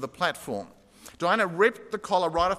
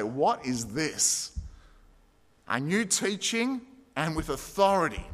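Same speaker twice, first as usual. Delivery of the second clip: amazed crowd; slower than usual. Retold or imitated. Crowd amazed at Jesus' authority.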